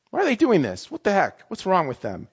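indignant. Retold or imitated. Replaying his judgmental indignation.

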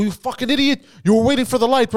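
high-pitched reenacted tirade; mock yell, voice pushed way up; angry yelling. Driver telling off old man at the light, yelling. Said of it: "I start yelling".

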